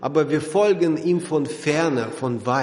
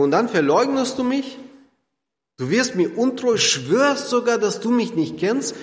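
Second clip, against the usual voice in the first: reproachful; 5 semitones higher than usual. Pretend. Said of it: "würde Jesus sagen".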